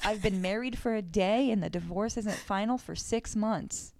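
put-on lightly slurred drunk man; slurred drunk speech. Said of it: "slurred and all".

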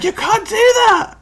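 high, loud, scolding wife impression; Kirsty. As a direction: draw out a scandalised shriek. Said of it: "Just like".

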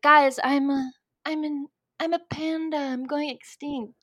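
sultry put-on voice; sexy voice. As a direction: breathe it out like a seductress. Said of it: "Is that a sexy voice?".

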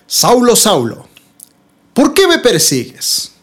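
measured storytelling with suspenseful pauses; dramatic Scripture reading. Acted. Preacher telling of Saul struck down near Damascus, dramatic reading. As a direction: build the scene toward the voice from heaven. Reads Saul's conversion story aloud.

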